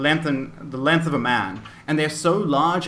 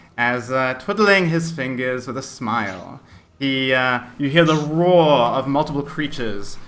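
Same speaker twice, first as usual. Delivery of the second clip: normal talking voice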